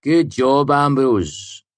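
high, dry sarcastic praise; mock him with fake praise. A narrator's reading. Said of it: "Willem said sarcastically".

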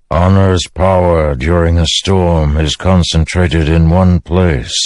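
slow, measured pronouncement; lightly voiced storm spirit, stately and unhurried; Stormfather. Stormfather explains his power to Dalinar, slow and solemn.

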